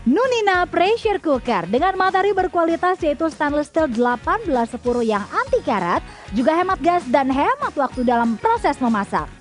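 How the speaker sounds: polished ad read; infomercial. Acted. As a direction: read it like a home shopping voiceover. Voiceover product promo read.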